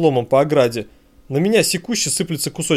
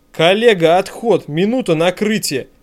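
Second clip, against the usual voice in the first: urgent shout; 4 semitones higher, slower than usual. Acted. Shouting retreat to partner.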